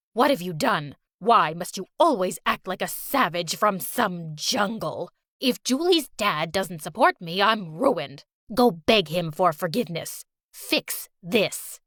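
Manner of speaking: put-on low, cold scolding old woman; angry old grandma. Fake grandma scolding Valerie, low and cold. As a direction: demand obedience with contempt.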